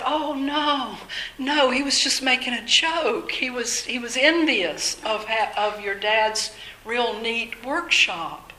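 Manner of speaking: brightly smooth over a misunderstanding, as retold; retold reassurance. Parents explaining a neighbor's joke to their son, retold reassurance.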